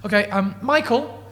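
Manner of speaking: lightly voiced host calling the butler; summoning the butler. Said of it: "He goes".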